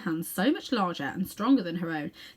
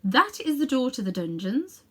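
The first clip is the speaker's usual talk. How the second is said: regal tour guide; 5 semitones higher, 4 dB louder than usual. Acted. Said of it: "she would say".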